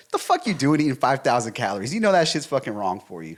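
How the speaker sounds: harsh, blunt scolding. Shown as a demonstration. Boyfriend bluntly scolding girlfriend over calories, rough and harsh. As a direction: bark it out like calling her dumb. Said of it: "it's the way in which I say it".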